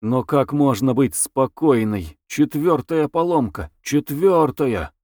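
mildly fed-up outburst; exasperated. Acted. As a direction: stretch the repeated "четвёртая" in disbelief. Exasperated at repeated breakdown.

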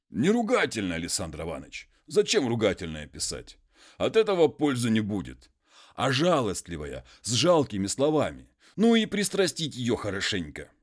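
a hint of a humble muzhik pleading; peasant voice.

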